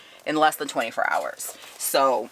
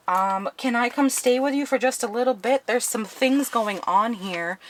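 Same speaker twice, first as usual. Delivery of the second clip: higher-pitched, careful asking voice; tentative request; 6 semitones higher than usual. Retold or imitated. Resident phoning family for a place to stay, tentative. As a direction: act out sheepishly asking a favor.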